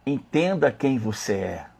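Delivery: slow, measured divine message; quietly authoritative quoted voice; solemn. Retold or imitated. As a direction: deliver it slowly as a weighty word from God.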